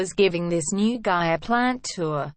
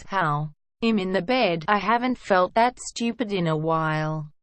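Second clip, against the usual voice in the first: flat, deadpan, no pitch movement; monotone voice. Retold or imitated. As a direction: drone it out in a monotone. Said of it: "In the most monotone voice she replies".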